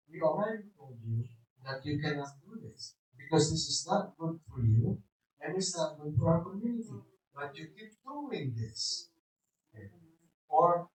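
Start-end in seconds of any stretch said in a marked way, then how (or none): 0.1-9.1 softer, even-toned firm reminder; quiet, steady, non-abusive feedback; calm correction. Shown as a demonstration. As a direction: correct them calmly without shouting. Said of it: "We just say".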